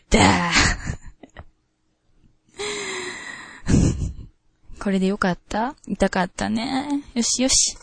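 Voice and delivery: a hint of a bossy Kansai mistress giving orders; sadistic dominatrix. Host reading a listener's requested S-role lines, lightly domineering. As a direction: order him to kneel, mildly domineering. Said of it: "まあ、ちょっと言ってみますわ".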